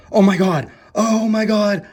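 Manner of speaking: high, loud, gushing squeal over the magazine; excited squeal. Real, not acted. Vlogger finding an old Newsweek, squealing excitedly. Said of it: "I love the eighties".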